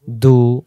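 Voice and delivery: দু with a light, forward d; wide du. Shown as a demonstration. Teacher showing dal with damma, wide sound. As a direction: keep দু light and spread. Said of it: "চওড়া করে".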